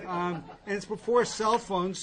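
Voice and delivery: ordinary talk, nothing marked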